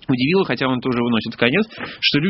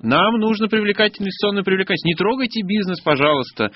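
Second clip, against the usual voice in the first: raised pitch, sarcastic parody of an official; mocking officialese; 5 semitones higher than usual. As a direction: parrot the official line with scorn. Mocking official promises to business.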